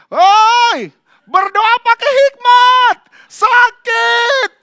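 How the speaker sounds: high, slow, very loud cry of pain; pained yell. Retold or imitated. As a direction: yell at the pastor who hit your sore leg. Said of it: "gini teriak". (teriakan kesakitan yang keras dan tinggi)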